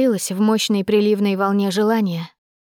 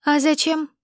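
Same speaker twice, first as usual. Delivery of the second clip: higher, mildly yawned question; sleepy, unconcerned reply; yawning; 6 semitones higher than usual. A narrator's reading. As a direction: ask it through a lazy yawn. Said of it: "широко зевнула я".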